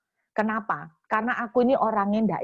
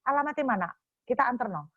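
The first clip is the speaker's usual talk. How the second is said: sulky demand; 2 semitones higher, 4 dB quieter, faster than usual. Retold or imitated. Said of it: "Ngomong ngambek".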